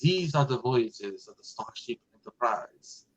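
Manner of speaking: slow, hammed-up French accent on the famous opening line; mock French accent. Retelling Patrick Stewart's first try, mock French accent. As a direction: imitate a bad French accent, slowly. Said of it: "go at it with a French accent".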